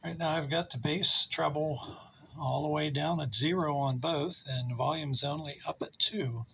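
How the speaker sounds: lo-fi speaker-mic pickup. Real, not acted. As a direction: sound through a small speaker used as a microphone. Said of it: "this is the sound actually coming out of the amplifier using a speaker as a mic".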